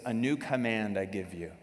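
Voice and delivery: earnest, plain scripture reading; sincere reading. Retold or imitated. Pastor finally reading the true verse, sincere. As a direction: give the real verse sincerely. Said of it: "I'm telling you the truth now".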